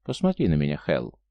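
low, coaxing purr; lightly voiced seductive invitation. A narrator's reading. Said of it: "промурлыкала она".

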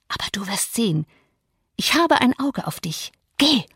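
witchy threats, swinging high then hushed; Misses Heathcliff. Acted. Young mistress scares off the old servant with spells, menacingly. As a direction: curse him, dropping to an ominous near-whisper before the dismissal.

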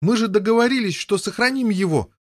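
high, loud accusing cry; yell. Acted. Boy yelling at brother who broke the deal. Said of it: "вопил Гавейн".

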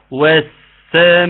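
والسماء with the ss held long; doubled sin. Shown as a demonstration. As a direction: stretch the s in والسماء. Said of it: "ننطقها تاني".

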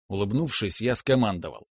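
plain reading voice

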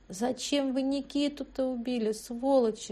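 weep out the accusation; bitter sobbing reproach; crying bitterly. A narrator's reading. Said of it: "Дашка заплакала горько-горько".

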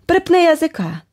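captor's threat. A narrator's reading. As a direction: bark it down at her like a thug. Captor snaps at the heroine. (погрозливий чоловічий голос, значно вищий)

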